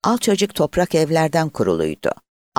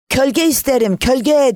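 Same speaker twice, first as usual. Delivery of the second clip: high, loud drawn-out cry; peddler's shout, pitched far up; 13 semitones higher, 4 dB louder than usual. A narrator's reading. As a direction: cry it out like a street seller. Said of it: "diye bağırdı".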